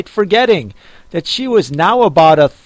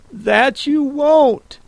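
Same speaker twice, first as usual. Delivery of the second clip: put-on higher, slow, firm girl's voice; Alice, determined; 9 semitones higher, slower than usual. A narrator's reading. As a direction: settle it slowly and firmly. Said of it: "thought Alice".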